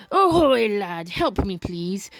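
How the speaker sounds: lightly voiced old sea dog; a hint of a salty pirate's brogue; hoarse old pirate. Old sailor begs a lad for rum, lightly hoarse pirate. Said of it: "the sailor says hoarsely".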